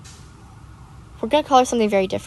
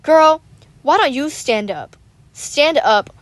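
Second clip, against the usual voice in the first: higher, scolding challenge; retold indignation; 5 semitones higher, slower than usual. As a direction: call her out, reliving the annoyance. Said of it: "I was just so mad".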